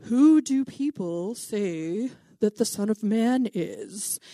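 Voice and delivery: slow, loaded question in a put-on voice; drawn out, hinting at a secret meaning; sneaky code words. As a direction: ask it like a spy passing a coded message. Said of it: "he's, like, asking his code words".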